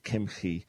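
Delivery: throaty Hebrew ch in Kimchi; Kimchi with guttural ch. Shown as a demonstration. Host names medieval rabbi correctly, guttural Kimchi. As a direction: scrape the ch of Kimchi. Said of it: "It's Kimchi".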